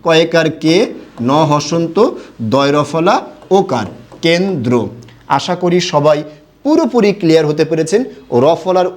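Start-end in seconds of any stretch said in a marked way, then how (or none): 4.2-4.7 কেন্দ্র said as ken-dro with the r kept and a final o; কেন্দ্র with an n and dro split into two syllables and an o ending; pronounce kendro. Shown as a demonstration. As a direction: teach কেন্দ্র as kendro, nothing doubled and an o at the end. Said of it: "উচ্চারণটা কিন্তু ঠিক একই রকম হবে".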